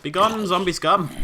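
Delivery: slow, loud, high battle cry; mock battle cry. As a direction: bellow it like a hammy hero. Yelling at zombies in game.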